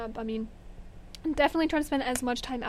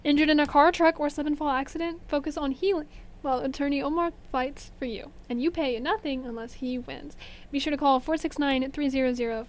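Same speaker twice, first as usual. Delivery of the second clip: ad read. Acted. Reads a sponsor ad.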